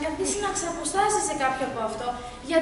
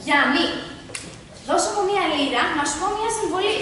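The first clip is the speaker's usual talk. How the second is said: loud call, then higher offer; 3 semitones higher, 5 dB louder than usual. Acted. Boss calls Giannis back, loud and eager. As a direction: call him back across the yard.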